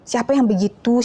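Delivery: ordinary talk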